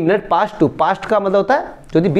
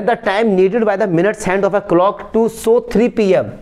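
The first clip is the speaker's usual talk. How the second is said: slow reading; much slower than usual. Shown as a demonstration. Teacher reads question text aloud.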